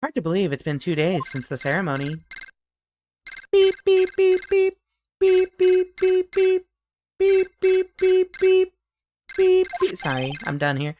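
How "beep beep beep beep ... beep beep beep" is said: high, loud mechanical beeping; beeping alarm. Acted. Toy bear's alarm going off at eight, high loud beeping. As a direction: chirp it out like an alarm clock.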